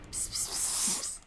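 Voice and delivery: soft whispered psst psst. Real, not acted. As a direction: coax the cat in a whisper. Calling a cat quietly.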